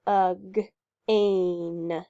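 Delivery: ug-ain said slowly the British way, rhyming with rain; British pronunciation. Shown as a demonstration. Teacher showing kids the British ug-ain, slow and careful. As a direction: slowly sound out ug-ain like a Brit. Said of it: "if we were British".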